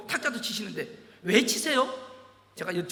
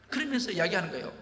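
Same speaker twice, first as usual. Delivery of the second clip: normal talking voice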